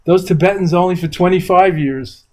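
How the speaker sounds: high, lightly voiced proud mother; a hint of a proud Brooklyn mom; mother's voice. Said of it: "She said".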